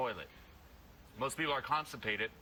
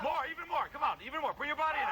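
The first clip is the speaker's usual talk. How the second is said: high, driving coach shout; real high-pitched hype yelling; shouted urging; 12 semitones higher, 3 dB louder, faster than usual. Real, not acted. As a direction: push them harder over the noise. Coach urging a student to scream.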